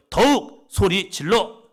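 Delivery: loud and slow rallying cry. Shown as a demonstration. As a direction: shout it at the neighbour, slowly. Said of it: "옆 사람 보시면서요".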